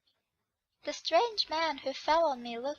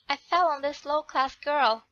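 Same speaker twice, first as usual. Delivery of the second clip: a bit louder, looking down on her; arrogant dismissal; 6 dB louder than usual. Acted. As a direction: sneer at the commoner.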